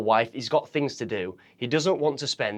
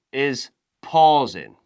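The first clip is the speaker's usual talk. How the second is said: slow drawn-out demo; 5 dB louder, much slower than usual. Shown as a demonstration. Coach showing pausing to viewers, slowly drawn out. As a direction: stretch the words out slowly to show a pause. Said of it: "technical aspects to improving your vocal variety".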